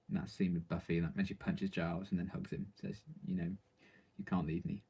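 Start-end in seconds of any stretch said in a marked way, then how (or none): 4.2-4.8 whispered quote. Retold or imitated. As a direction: whisper it like Buffy breaking down. Quoting Buffy's tearful line.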